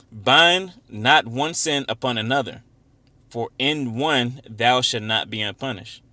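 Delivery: slow, emphatic scripture reading. Acted. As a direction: read the verse out slowly, with weight. Reads scripture aloud.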